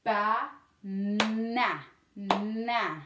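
na with a long held "nnn" before the vowel; Ba, then stretch the N into na; second syllable isolated. Shown as a demonstration. Teacher works on second syllable, drawn-out na. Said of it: "On va faire deuxième".

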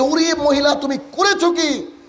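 high, slow scolding cry; a stretched-out shocked rebuke from the prophet; angry rebuke. Acted. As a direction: scold her in disbelief, drawn out. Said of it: "মুসা আলাইহিস সালাম রেগে গিয়েছেন".

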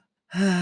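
tired sigh. Acted. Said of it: "ถอนหายใจพูดว่า".

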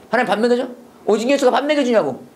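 high, challenging sceptic; mock angry retort. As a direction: talk back as if scoffing at the idea. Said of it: "화내면서 얘기했을 것 같아".

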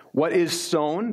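slow, hushed whisper of the verse. Acted. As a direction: breathe the words out slowly. Scripture quote read slowly.

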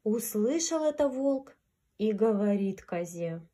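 gentle storyteller voice; grandma telling fairy tale. A narrator's reading. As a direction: read it like a bedtime fairy tale. Reads fairy tale to children.

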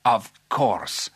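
drawn-out royal assent; agreeable king. Acted. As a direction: grant it grandly as a king. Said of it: "said the king".

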